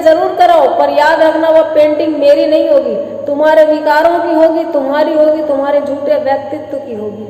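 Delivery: emphatic, mildly indignant warning; defiant retort. Acted. Wife answers husband's threat about the painting, defiant. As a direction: hit each accusation firmly.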